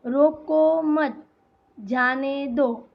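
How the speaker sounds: slow, with a clear pause after "मत"; comma pause. Shown as a demonstration. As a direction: break the phrase at the comma after "मत". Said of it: "तो यहाँ बीच में क्या आएगा".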